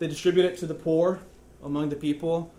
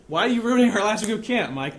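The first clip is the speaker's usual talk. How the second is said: raised, louder mock exasperation; lightly acted, higher-pitched reproach; retold exasperated complaint; 5 semitones higher, 3 dB louder than usual. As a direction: imitate a fed-up friend, pitched higher. Retelling friends' exasperated question to him.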